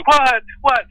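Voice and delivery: high, weepy imitation of an impatient widow; mock tearful demand. Widow pressing the reluctant medium for the answer, mock tearful. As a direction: pitch it way up, pleading through mock tears. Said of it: "she's crying through this crumpled tissue".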